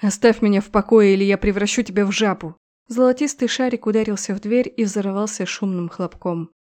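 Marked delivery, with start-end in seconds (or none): 0.0-2.6 angry shout. Acted. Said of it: "крикнув".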